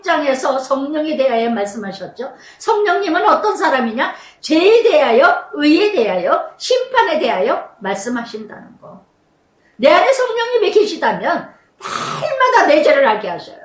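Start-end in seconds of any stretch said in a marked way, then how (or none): 2.6-13.6 rising, emphatic sermon cadence; impassioned pulpit delivery; fervent preaching. Real, not acted. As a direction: drive each phrase home to the congregation. Preaching at full force.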